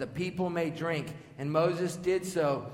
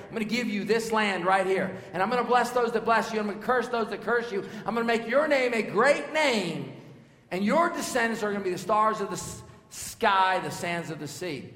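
booming voice of God; 6 semitones higher, 6 dB louder than usual. Acted. God's promise voiced in sermon.

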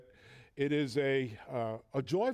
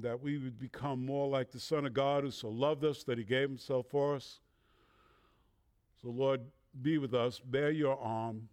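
prayer; 3 semitones lower than usual. Acted. Pastor prays over the congregation.

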